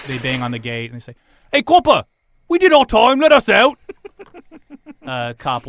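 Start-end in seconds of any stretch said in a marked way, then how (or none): 1.5-3.8 high, loud holler to the guard; acted prisoner demanding attention; calling out. Prisoners bang on the gate, hollering to be released.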